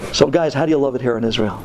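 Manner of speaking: put-on Brooklyn accent. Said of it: "with the Brooklyn accent, he says".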